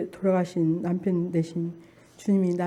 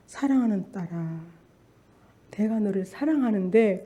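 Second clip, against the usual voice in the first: tender voice; 4 dB quieter than usual. Retold or imitated. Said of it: "그 목소리 속에 너무 안타까워하는".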